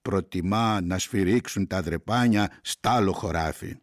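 measured verse reading with weighted pauses; poem recitation. Acted. Reader reciting Greek verse to listeners, measured poem recitation. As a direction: recite line by line, letting each phrase settle.

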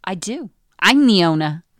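a put-on claim of ownership, loud on "I'm the owner"; haughty Karen voice. Karen claims she owns the place, haughty put-on voice. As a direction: lord it over the staff. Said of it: "I don't know what accent that was, but I love it".

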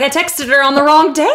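retold panic. Telling friends about a birthday text mix-up, mild mock panic. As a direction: replay a small panic for friends. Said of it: "Meanwhile, I'm panicking".

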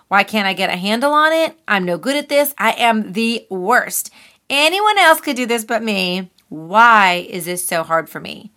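lightly acted self-reproach; a hint of a self-berating inner critic. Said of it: "it plays the role of the inner critic".

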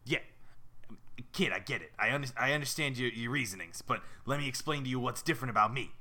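New York tough-guy goldfish; raspy New Yorker. Acted. Fish reasoning with the kid, raspy New York voice. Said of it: "They all sound like raspy New Yorkers".

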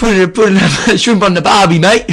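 hammed-up, clumsy Australian accent, half laughing; bad Aussie accent. Podcast host asked for an Aussie accent, attempts a bad Australian one. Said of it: "I'm not too good at the Aussie one".

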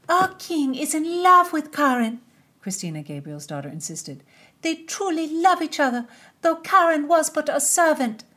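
put-on high, loud pleading girl; high insistent girl. A narrator's reading. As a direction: insist with girlish fervour.

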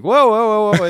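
high, sudden alarmed whoa; startled whoa. Retold or imitated. Host sees kids grabbing food, startled high whoa. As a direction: cry out to stop the kids grabbing pizza.

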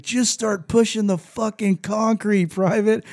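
high, slow, mock-commanding order; drill sergeant order. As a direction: lay it on like a sergeant ordering push-ups. Drill sergeant ordering push-ups.

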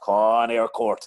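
slow loud roar from the stands. Retold or imitated. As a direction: call it out like a fan. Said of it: "I let a roar off".

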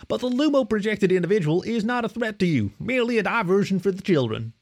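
high, courteous feline captain; a small cat captain asking politely. A narrator's reading. A cat captain asks a puppy to switch on the projector, high and courteous.

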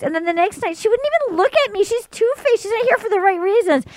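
mock complaining. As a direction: act out an indignant little complaint. Retold tattling about a rival.

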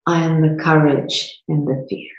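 measured lines with long pauses, left open for repeating; guided meditation. Real, not acted. Host guided through a micro meditation to feel it, guided meditation. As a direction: lead them through it step by step. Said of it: "to do a micro meditation".

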